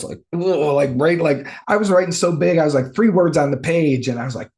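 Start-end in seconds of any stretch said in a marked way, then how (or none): 0.3-0.4 mock frustrated growl; angry grunt. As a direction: let out an exasperated ugh. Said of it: "I was getting angry".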